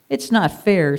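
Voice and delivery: jealous sheep complaining out loud; said loudly. Acted. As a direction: say it loudly so all hear. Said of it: "said Curly loudly".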